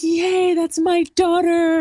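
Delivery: hammed-up high proud-dad cheer. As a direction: gush like a proud father. Proud father in audience.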